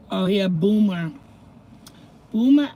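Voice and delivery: loud, high boomer jab; playful shout of boomer; mock call-out. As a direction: throw the word like an insult. Calling out slang word.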